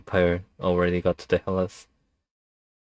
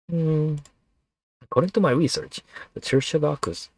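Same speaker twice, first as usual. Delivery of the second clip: snake voice; 8 semitones higher than usual. Acted. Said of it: "snake voice was really taxing".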